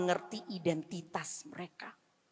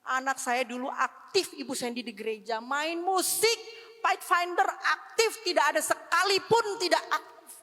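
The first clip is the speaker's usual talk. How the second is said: mild imitation of a weeping parent, higher; higher, pleading parent's voice; tearful parent; 5 semitones higher than usual. Parent phoning the pastor about a lost child, mildly tearful. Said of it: "menangis, katakan".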